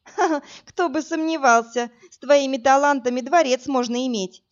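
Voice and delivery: laughing and teasing. Acted. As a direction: laugh through the words. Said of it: "засмеялась я".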